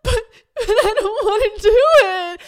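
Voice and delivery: high, loud sobbing whine; laugh-crying whine. Retold or imitated. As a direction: beg through tears and laughter. Retold crying refusal to ski.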